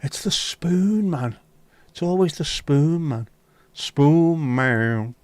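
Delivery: put-on accent Scouse exagéré, voix haute et lente; playful catchphrase. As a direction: lance la réplique comme un refrain comique. Catchphrase about the spoon.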